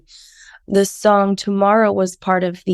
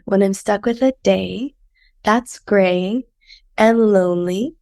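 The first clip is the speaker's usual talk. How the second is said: sick voice. Real, not acted. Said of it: "enjoy my sick voice".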